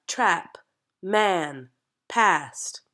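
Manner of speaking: trap, man, past with a wide open ah. Shown as a demonstration. Coach giving example words to actors, open vowel. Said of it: "is a nice open ah".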